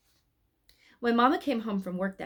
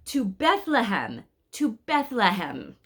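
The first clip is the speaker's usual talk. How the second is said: slow, loud, raised proclamation; rallying call; 3 semitones higher, 5 dB louder, slower than usual. Acted. Shepherd thumps his crook to move pilgrims on, rallying. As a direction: call the company onward with resolve.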